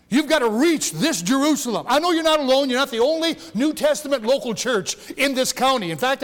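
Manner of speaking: usual speaking voice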